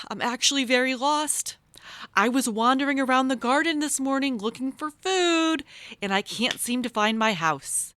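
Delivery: lightly voiced lost mouse. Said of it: "said Hank".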